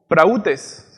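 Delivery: prautes with the stress on the U; accent the U in prautes. Shown as a demonstration. Preacher teaching the Greek word, prautes stressed on the U. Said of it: "Con acento en la U".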